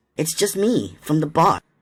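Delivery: put-on pleasant, friendly voice. Narrator reassures a startled woman, in the most pleasant voice. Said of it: "I said in my most pleasant voice".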